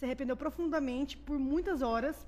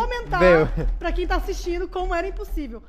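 much louder, animated protest; loud insistence; 3 semitones higher, 12 dB louder than usual. Real, not acted. Guest citing her sister watching online, loud playful insistence. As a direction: belt it out over the others. Calling on sister over laughter.

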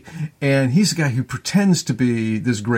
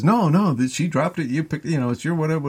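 lightly voiced higher-pitched protest; a hint of mock innocent protest, pitched up; clueless D'Artagnan; 5 semitones higher than usual. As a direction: mildly imitate a naive young man insisting. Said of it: "stupid D'Artagnan says".

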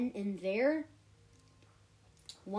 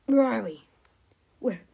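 loud, bewildered question; loud lost cry; 9 dB louder than usual. Acted. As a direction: call out lost and confused. Characters arriving somewhere strange.

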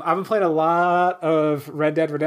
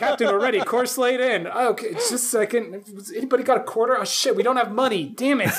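mock bridge scene; 6 semitones higher than usual. Mock bridge scene, captain flipping coin.

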